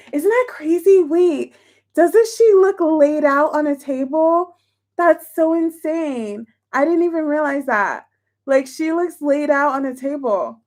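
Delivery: high, excited disbelief; real surprise, voice jumping up; amazed. Real, not acted. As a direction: gasp over the card you just noticed. Notices the card image, amazed.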